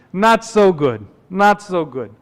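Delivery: put-on downcast complaint in an old-world accent; Dracula-like accent. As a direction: grumble it in a put-on accent, falling off. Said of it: "sounds like Count Dracula".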